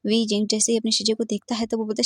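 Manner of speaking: ordinary delivery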